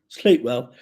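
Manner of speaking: a hint of a wizard's blessing on "Sleep well"; mock Gandalf. Shown as a demonstration. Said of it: "why am I talking like fucking Gandalf".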